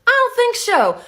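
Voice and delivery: lisped S, tight-mouthed drawl; Elastigirl. Acted. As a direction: superhero with a tight mouth and a drawl, slowing on the last line. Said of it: "So for Elastigirl, she's got this S thing".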